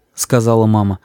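ordinary delivery, nothing marked

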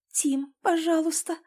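ordinary delivery, nothing marked

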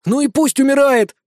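high, loud shrill outburst; sudden shriek. A narrator's reading. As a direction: shriek it out spitefully. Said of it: "внезапно взвизгнул Иосиф".

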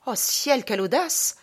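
theatrical cry of outrage at an affront; indignant shock. Acted. Man discovers dogs following him, indignant shock.

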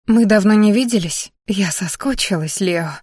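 lightly voiced cooing woman; tender cooing. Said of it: "проворковал нежный женский голосок".

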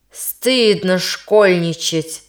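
slow stern rebuke; strict. Acted. Teacher scolding the girl, slow stern rebuke. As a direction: drag it out as a stern reproach. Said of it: "произнёс он строго".

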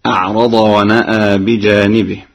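chanted plainly, ونأى with open alif; Quran recitation. Shown as a demonstration. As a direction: recite it straight. Hafs reading before Warsh. (تلاوة بالفتح)

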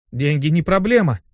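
mildly boastful; a touch of showing off; boasting. Acted. Demon waving away the cost, lightly boasting. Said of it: "похвастался Мотив".

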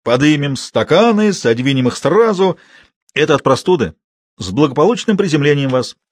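hearty toast. Acted. Man urges the girl to drink, toasting loudly. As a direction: raise the glass with gusto.

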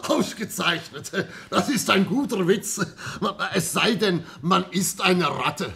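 laughing through the words, high and loud. Acted. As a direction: repeat the joke while still laughing hard. Inspektor lacht, wiederholt den Witz. (lachend, laut und hoch wiederholt)

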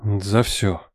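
low, hushed sepulchral tone; a mock voice from the grave; disguised deep voice. A narrator's reading. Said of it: "Произносит Миша загробным голосом". (загробный голос в шутку)

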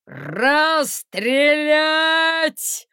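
loud, drawn-out bellowed command; thundering order. A narrator's reading. Guard chief bellowing an execution order down the street. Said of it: "прогремело на улице".

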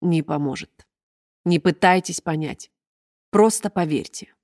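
мягко и медленно, с сожалением; успокаивать, жалея; ласково. Acted. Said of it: "ласково, с сожалением". (чиновница ласково уговаривает хозяйку Сеттера)

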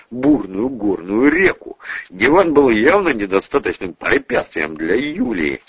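ordinary delivery

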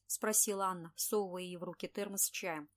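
plain reading voice

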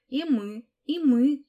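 high, loud little squeals; small girls beg to come along, squealing; squeaking. A narrator's reading. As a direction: chime in with eager squeaks. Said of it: "запищали другие".

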